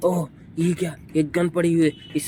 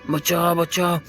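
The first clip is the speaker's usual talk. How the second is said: mock cry for help; 4 semitones higher, slower than usual. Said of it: "चिल्ला रहा है".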